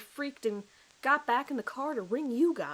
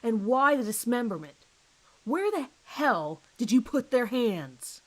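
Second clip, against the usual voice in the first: angry demand; 2 semitones higher, 5 dB louder than usual. Acted. Detective demands answers.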